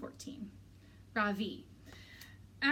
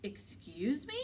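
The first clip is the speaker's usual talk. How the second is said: affronted teacher; 3 dB quieter, slower than usual. A narrator's reading. Teacher shocked by pupil's rudeness.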